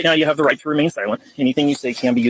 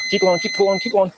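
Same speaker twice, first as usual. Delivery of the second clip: encouraging; 5 semitones higher than usual. Real, not acted. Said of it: "So you gotta blow hard".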